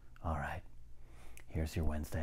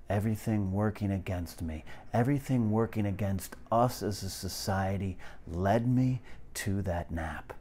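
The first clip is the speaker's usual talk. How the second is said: louder, higher, building declaration; rising rant; 3 semitones higher, 5 dB louder than usual. Acted. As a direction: swell into a passionate rant.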